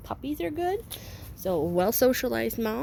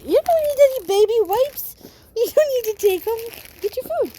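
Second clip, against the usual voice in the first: mild pet scolding; 9 semitones higher, 7 dB louder than usual. Real, not acted. Scolding puppy over baby wipes.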